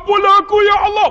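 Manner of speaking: high, loud mock wail; imitated tearful plea. Preacher as father asking forgiveness, loud tearful wail. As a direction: beg for mercy in a very high cry. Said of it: "Menangis, saya duk dengar".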